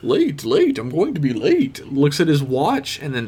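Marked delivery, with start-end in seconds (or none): 0.0-1.8 White Rabbit voice. Retold or imitated.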